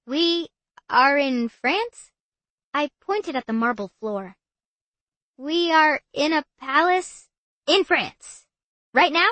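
high, loud, slow disbelief; stunned, pitch climbing; shocked disbelief. Acted. Maggie shocked to be in France.

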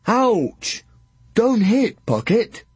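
put-on high, loud childlike yowl; a hurt big child whining; whining giant. Drool yowling at Pocket after the clout, high and whiny.

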